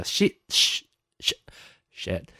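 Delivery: soft frustrated curse under breath; muttered curse. Real, not acted. Failing at Texas again, soft muttered curse. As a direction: swear quietly to yourself. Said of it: "I can't say it".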